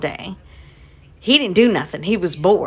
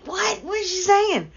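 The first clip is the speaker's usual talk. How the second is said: retold surprise; 11 semitones higher than usual. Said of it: "I was like".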